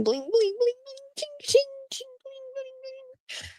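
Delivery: tiny high-pitched bling bling fading out; imitating casino machine chimes; high imitated slot jingle.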